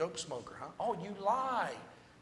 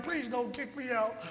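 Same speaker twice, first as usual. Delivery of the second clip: slower, softer repeat of the plea; softer slow pleading; 6 semitones higher, 4 dB quieter than usual. Retold or imitated. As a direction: drag out the begging, quieter. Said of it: "he pleaded and begged".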